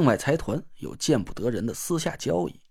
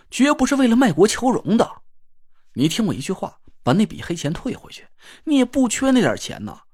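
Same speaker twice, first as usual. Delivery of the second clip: stern rebuke; 3 semitones higher than usual. Acted. Stern rebuke of traitor brother.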